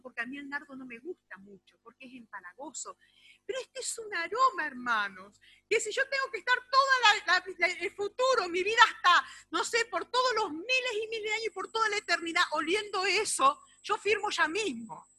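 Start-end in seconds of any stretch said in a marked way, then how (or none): 3.5-15.1 high, loud ecstatic testimony; soaring excited praise; rapturous. Real, not acted. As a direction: swell with joy over the scent. Rapture over the aroma.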